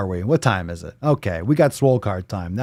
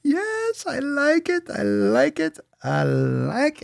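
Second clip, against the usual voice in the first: delighted; slower than usual. Real, not acted. Delighted by his idea.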